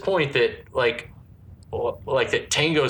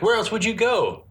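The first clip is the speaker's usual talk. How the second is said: mock high voice; 10 semitones higher than usual. Mocking her reply in film quote.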